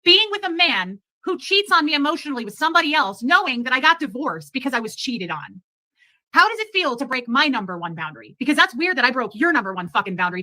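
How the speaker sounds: heated, indignant retold comeback; standing up. Woman retelling standing up for herself, heated comeback. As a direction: push back hard in a retold quarrel. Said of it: "stuck up for myself".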